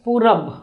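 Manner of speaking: "Purab" with long oo, closed on a b; northern variant. Shown as a demonstration. Teacher giving the northern Indian form, clear pronunciation. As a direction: say "Purab" as two syllables, ending in b. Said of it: "they may call as".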